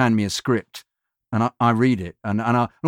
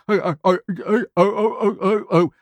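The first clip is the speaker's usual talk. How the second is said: high, strained run of helpless ohs; a hammed-up groan of disbelief in a higher voice; mock dismay; 7 semitones higher than usual. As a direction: play the despair of hearing a hopeless read. Panicking at a failed read.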